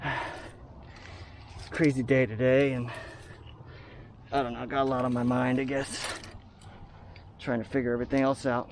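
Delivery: short of breath while climbing; winded, talking mid-climb; climbing stairs. Real, not acted. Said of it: "It's kinda hard to talk and climb".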